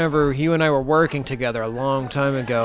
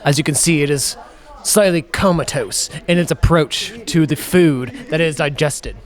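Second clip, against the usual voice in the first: hushed wildlife narrator voice; nature documentary; 4 dB louder than usual. Acted. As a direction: narrate him like a sleeping animal. Mock wildlife narration of sleeper.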